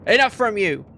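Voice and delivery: loud, high outburst; angry guard. Acted. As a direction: cut the prisoner off with a shout. Guard cuts off prisoner's back talk.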